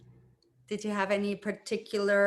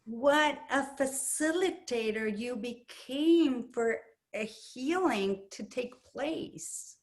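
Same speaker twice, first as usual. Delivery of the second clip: tender praise; 3 semitones higher, slower than usual. Real, not acted. Praising participant softly.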